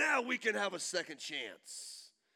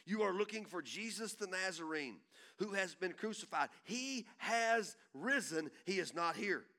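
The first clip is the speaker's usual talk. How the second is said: angel speaking; 2 semitones higher than usual. Acted. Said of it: "And the angel said to them".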